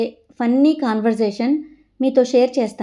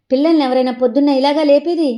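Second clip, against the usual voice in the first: higher, louder outraged complaint; indignant protest; 5 semitones higher, 5 dB louder than usual. Acted. Daughter protesting at her mother, loud and outraged. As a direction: fire it back at mum, fed up.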